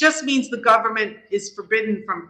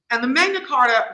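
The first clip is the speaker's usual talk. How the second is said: Magna Carta in a New York accent, broad vowels; 3 semitones higher, 4 dB louder than usual. Real, not acted. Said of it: "that was my New York accent coming out".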